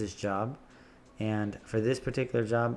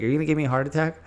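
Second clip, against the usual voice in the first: mock alarmed client; 5 semitones higher, 5 dB louder, much faster than usual. Client alarmed by change orders.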